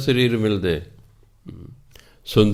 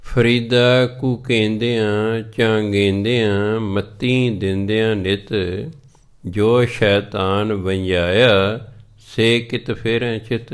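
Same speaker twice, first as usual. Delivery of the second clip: slow, measured scripture recitation; stretched-out sacred verse, line by line; slower than usual. Acted. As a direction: recite the couplet slowly, drawing out the words.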